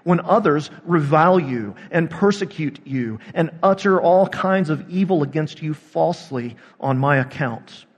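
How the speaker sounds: measured, solemn reading of scripture. Acted. Pastor reading the gospel to the congregation, solemn. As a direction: read the gospel aloud to the congregation.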